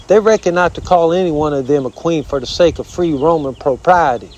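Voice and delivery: lightly voiced southern armadillo; rambling southern critter voice; proud armadillo. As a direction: explain it with folksy southern pomp. Armadillo explains the lady.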